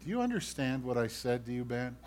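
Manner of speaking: a hushed, pointed question from God; God murmuring a warning to a straying believer; whispering God. Acted. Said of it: "And God whispers to you".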